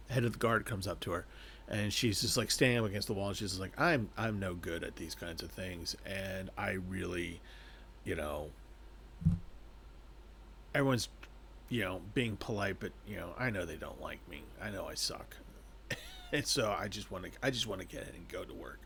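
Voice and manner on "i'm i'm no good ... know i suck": softer, lower, deflated mumble; a mild dejected murmur; mopey self-pity. Retold or imitated. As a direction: sink into it, she thinks she's worthless. Heroine mopes against the wall.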